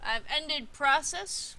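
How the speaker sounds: talking while chewing ice; words round a mouthful of ice. Real, not acted. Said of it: "Sorry, I'm chewing on ice too".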